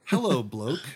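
Australian slang in a plain American accent; American accent, no Australian put on; straight American accent. Shown as a demonstration. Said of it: "just straight in American accent".

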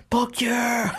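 high-pitched, drawn-in burst of enthusiasm; retold excited cheer. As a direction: re-enact an eager, whooping yes. Retelling his excited reply to friend.

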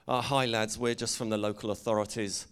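a light put-on English accent, mock official. Pranking the partying lads, lightly in an English accent. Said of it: "in my English accent".

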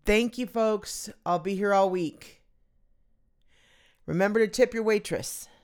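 mock nightclub comic patter; hammed-up stand-up comic. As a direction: play a lounge comedian milking the crowd. Mock stand-up closing lines.

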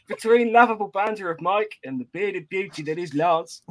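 hammed-up Aussie greeting into a review read; botched Australian accent; bad Australian accent. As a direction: read it in a shaky attempt at Australian. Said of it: "how shit he is at Australian accents".

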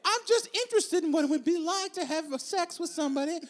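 a hammed-up Abigail, pleading; playing Abigail. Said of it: "You're Abigail Adams".

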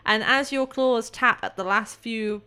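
measured, storytelling scene-setting; game master narration. Acted. Game master describes the tunnel breakthrough to player, scene-setting narration. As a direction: narrate the discovery with building suspense.

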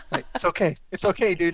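high, tense reassurance; frantic hush. Retold or imitated. Calming panicked cousin.

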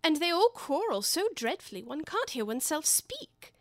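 complaining. Acted. Alice complaining to the cat about the croquet game, high and whiny. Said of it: "in a rather complaining tone".

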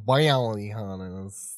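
slow, stretched cowboy "bounty hunters"; cowboy drawl. Shown as a demonstration. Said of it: "a cowboy impression?".

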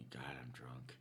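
breathy whispered aside, nearly silent. Real, not acted. Speaker whispering to friends that they're drunk. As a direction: drop to a bare whisper to confess it.

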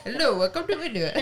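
put-on Indian accent. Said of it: "He said".

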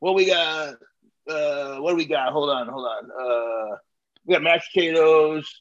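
a hint of indifferent clerk; bored cashier listing. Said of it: "She goes".

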